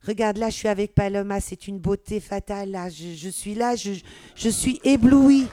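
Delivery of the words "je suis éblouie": dazzled. Real, not acted. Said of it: "ce petit moment de grâce".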